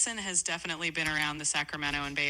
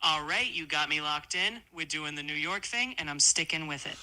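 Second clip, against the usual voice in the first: put-on confident New York accent, lightly laid on. AI told to keep talking, sustained New York accent. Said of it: "say everything in a New York accent".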